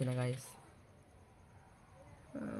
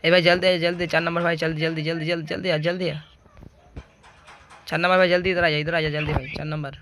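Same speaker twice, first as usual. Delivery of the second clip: urgent calling; faster than usual. Real, not acted. Urging teammate during game.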